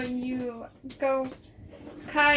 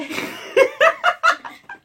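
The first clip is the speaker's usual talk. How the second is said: || loud high burst of laughter; 9 dB louder than usual. Real, not acted. GM cracks up at the bit about a band, high laugh. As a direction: laugh out at the joke.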